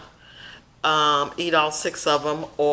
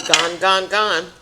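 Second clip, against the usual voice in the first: put-on toddler voice; 6 dB louder, much slower than usual. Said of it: "As Jerry used to say".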